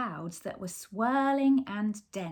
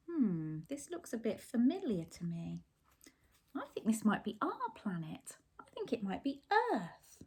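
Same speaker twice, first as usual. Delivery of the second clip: soft and fast, puzzled; quiet, fast wondering; 6 dB quieter, faster than usual. Acted. Martians wondering aloud if the planet is Earth. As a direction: murmur the realisation quickly.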